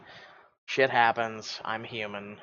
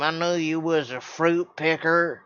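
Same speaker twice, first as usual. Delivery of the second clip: put-on Southern accent; 2 semitones higher than usual. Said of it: "I'm gonna have an accent like this".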